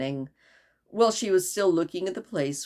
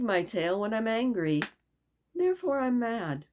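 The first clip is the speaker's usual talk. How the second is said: lightly voiced lazy cat; Cheshire Cat voice; 3 semitones higher than usual. Cat explaining its madness.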